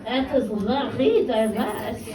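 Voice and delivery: put-on drawn-out French-accented friend. French friend tells about her love life, French accent. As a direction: play a French woman, taking it slowly. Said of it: "in a French accent".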